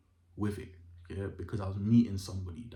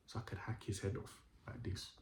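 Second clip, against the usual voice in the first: 1 whispered fury; 9 dB quieter than usual. Real, not acted. Vengeful fantasy dropping to a hiss.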